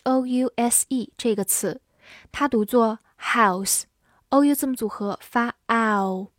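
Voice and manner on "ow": "ow" as one gliding double vowel; diphthong. Shown as a demonstration. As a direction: draw "ow" out as a clear diphthong. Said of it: "这个双元音". ("ow"读成清晰的双元音)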